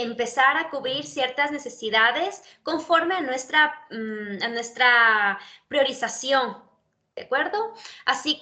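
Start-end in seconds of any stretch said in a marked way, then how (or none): none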